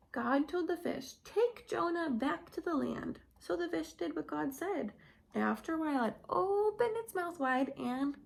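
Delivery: put-on lively, animated storybook voice for little kids; reading to children. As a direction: tell it like a Sunday school story. Reads Bible story to children.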